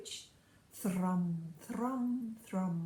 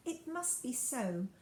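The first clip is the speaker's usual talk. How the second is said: heavy, hopeless; 3 semitones higher, slower than usual. Acted. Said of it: "in a heavy, hopeless tone".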